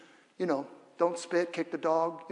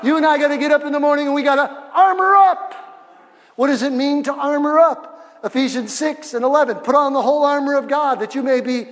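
loud, high revival preaching; loud fervent sermon; preaching full force; 6 semitones higher, 8 dB louder than usual. Real, not acted. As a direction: drive it home to the pews.

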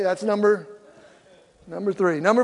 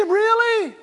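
higher, disbelieving Really?; incredulous; 12 semitones higher than usual. Retold or imitated. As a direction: pitch it up in mock disbelief. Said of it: "I said".

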